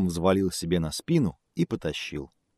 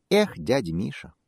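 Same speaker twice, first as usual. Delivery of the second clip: squeaky mouse voice; 4 semitones higher than usual. Acted. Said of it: "пискнул мышонок".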